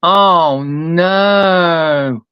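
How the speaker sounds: a hint of grieving, soft; lightly voiced mourning; quiet grief. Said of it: "I've gotta get the grieving voice right".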